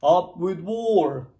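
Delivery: loud, slow rallying shout; slow chanted shout. A narrator's reading. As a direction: bellow it like a war cry. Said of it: "And they shouted".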